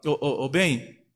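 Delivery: lightly acted low, tender appeal; coaxing mother. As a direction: imitate a wife gently persuading her husband. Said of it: "Aí a mãe fala".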